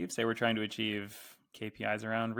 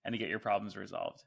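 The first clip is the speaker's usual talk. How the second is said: show up excited; 3 dB louder than usual. Shown as a demonstration. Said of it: "show up excited".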